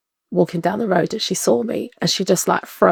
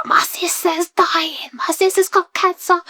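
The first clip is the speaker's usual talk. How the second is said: retold distraught cry; 11 semitones higher, slower than usual. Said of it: "I could hear her screaming".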